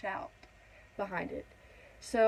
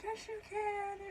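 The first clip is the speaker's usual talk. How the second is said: retold encouragement; 11 semitones higher, 7 dB quieter, slower than usual. Retold helpers encouraging her.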